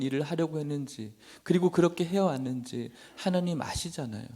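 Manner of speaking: acted plea to God, pitch lifted; tearful pleading prayer. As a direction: plead earnestly as Hezekiah, without real tears. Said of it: "라고 이야기하는데 눈물이 계속 나는 거예요".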